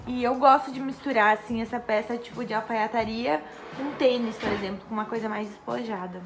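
numb mouth, slightly slurred words; numb from the dentist. Real, not acted. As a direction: talk with an anesthetized mouth. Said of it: "ainda tô com a boca anestesiada".

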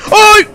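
loud, high startled yelp; grito de susto. Real, not acted. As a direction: yelp in sudden fright. Se asusta al buscar al elefante. (chillido fuerte de sobresalto)

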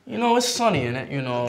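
hammed-up attempt at a Manchester accent. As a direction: put on a shaky-credibility Manchester accent. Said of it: "Give me your best Manchester accent".

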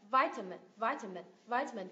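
"vitamin" with a weak middle schwa; schwa in middle syllable. Shown as a demonstration. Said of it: "Mình biến nó thành xoa sao".

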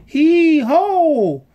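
high, loud heave-ho chant; rhythmic high shouted chant; crying out. A narrator's reading. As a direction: heave together with all your strength. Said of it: "they cried".

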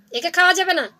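firm loud verdict after the hushed one; loud refusal. Acted. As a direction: declare it out loud to his brother. Jackal repeats refusal loudly.

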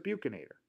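buccinator said as BYOO-kin-ator; reported pronunciation. Shown as a demonstration. Anatomy teacher passing on how others say it, reported pronunciation. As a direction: open buccinator with a "byoo" sound. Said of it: "I've heard people pronounce it".

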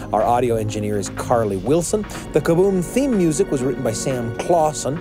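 brisk podcast sign-off read; credits read. Shown as a demonstration. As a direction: read the staff list and plug like a show announcer. Reads staff credits and promo.

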